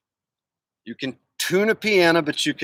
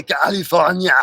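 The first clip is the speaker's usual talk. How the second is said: Arnold California. Shown as a demonstration. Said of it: "If you can say".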